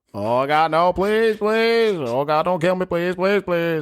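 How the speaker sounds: very high, frantic, desperate pleading voice. Mocking another person's Bill Clay impression, his Bill Clay voice. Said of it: "when he goes into his Bill Clay... Bill Clay don't sound like that".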